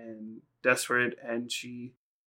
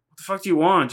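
higher, louder mock exasperation; retold annoyed outburst; 6 semitones higher, 6 dB louder, faster than usual. Nami shoving off an unwanted helper, mock annoyed. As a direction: act out an irritated brush-off. Acted annoyed snap at Luffy.

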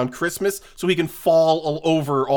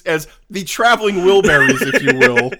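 laughing, louder excited pitch; excited planning; 3 semitones higher, 5 dB louder than usual. Real, not acted. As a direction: grin through the casting.

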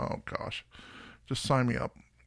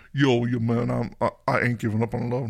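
tries the line as a mock New Yorker; a lightly put-on New York accent, half-joking. A host tests the song lyric as a New Yorker. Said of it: "like a, a New Yorker thing".

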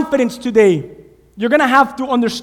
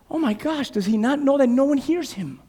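amazed; 6 dB quieter than usual. Retold or imitated. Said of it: "I said".

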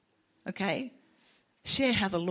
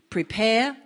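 called out; 5 semitones higher, 8 dB louder than usual. Shown as a demonstration. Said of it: "Can you say that with me?".

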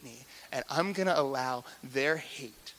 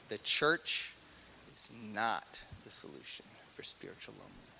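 whispered; 6 semitones lower, 10 dB quieter than usual. Real, not acted. Sermon falls to a hush.

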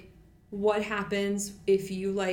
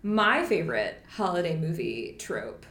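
sarcastic. Real, not acted. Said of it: "please read the sarcasm".

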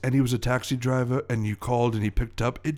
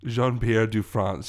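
put-on slow, French-accented name correction; low-key French villain stating his name; 3 semitones lower, slower than usual. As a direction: correct them as an offended Frenchman. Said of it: "my French accent".

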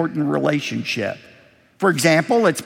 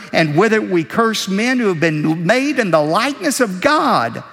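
measured, raised scripture read; 3 semitones higher than usual. Acted. Pastor reading James to his congregation, formal and raised. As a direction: read the verses out to the flock.

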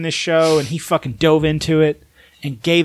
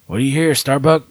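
Adama quote. Retold or imitated. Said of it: "Everyone has to do the Mexican accent".

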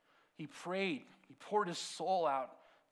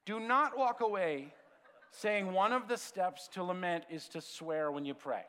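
laughing warning; 4 semitones higher, 5 dB louder than usual. Real, not acted. Warning tweeting listeners, laughing.

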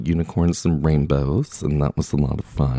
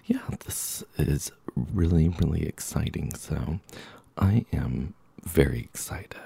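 whispering; 7 dB quieter than usual. Real, not acted. Podcast chat, sudden hushed aside.

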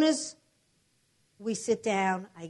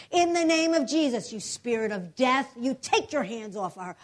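preaching prayer. Retold or imitated. Prays again over body.

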